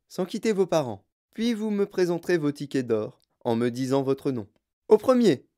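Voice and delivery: put-on host marshalling children; Wonka instructing guests. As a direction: give orders cheerfully, then call out the last words. Voices the host giving instructions.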